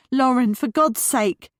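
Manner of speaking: pleading at the daughter, drawn out; exasperated. Acted. Worried mother answers phone.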